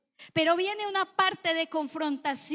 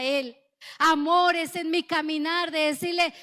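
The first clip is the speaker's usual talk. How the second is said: louder, driving sermon voice; fervent preaching; 3 dB louder than usual. Acted. Pastor urging his flock to worship in trials, fervent. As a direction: preach it with conviction to the congregation.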